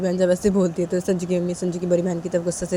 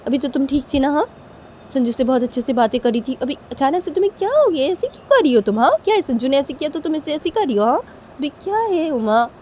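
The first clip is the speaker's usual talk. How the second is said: raised, insistent mother's voice; mother scolding; 7 semitones higher, 3 dB louder than usual. Acted. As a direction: press her daughter with sharp questions. Mother questioning Uma. (ऊँची आवाज़ में डाँटती माँ)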